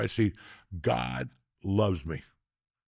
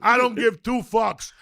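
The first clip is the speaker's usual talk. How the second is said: loud, high, shouting delight in a comedy scene; ecstatic raving; 9 semitones higher, 5 dB louder than usual. Real, not acted. Man raving to friends about Pee-wee's dance, shouting with glee. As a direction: hammer home your love for the scene, near shouting.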